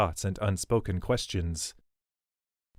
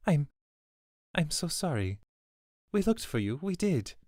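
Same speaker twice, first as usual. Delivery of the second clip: a touch of tearful pity; pitying lament; 8 semitones higher than usual. A narrator's reading. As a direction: grieve over the lost child, voice rising. Swidona's sorrowful apology.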